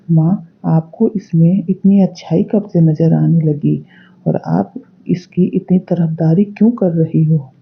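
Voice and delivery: loud angry son yelling at his mother; angry shouting. Acted. Son yelling at mother for siding with his wife, loud and angry. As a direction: shout it out in frustration. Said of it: "बहुत चिल्ला रहा होता है".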